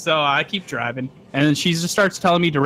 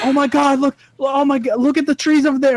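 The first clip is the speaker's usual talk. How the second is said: put-on frantic, alarmed outburst, high and panicky; 11 semitones higher, 4 dB louder than usual. Retelling a passenger's panic about fallen trees: imitating someone freaking out. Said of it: "she's freaking out".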